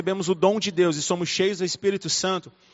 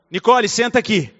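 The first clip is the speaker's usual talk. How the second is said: stern scolding. Shown as a demonstration. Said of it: "quando eu vou corrigir a Nicole".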